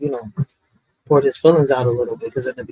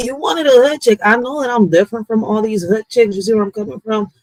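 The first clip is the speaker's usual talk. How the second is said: higher-pitched, emphatic comeback; retold confrontation; 5 semitones higher than usual. Woman retelling her comeback to her baby pops, lightly acted challenge. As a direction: push back at him, pitch lifted.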